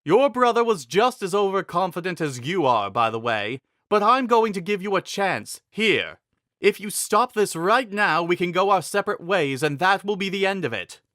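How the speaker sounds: a proud king giving a last chance; confident king. A narrator's reading. King Fassad voiced in story.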